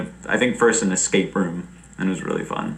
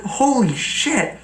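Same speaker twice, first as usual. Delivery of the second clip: stunned; 13 semitones higher, slower than usual. Retold or imitated. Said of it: "I was like".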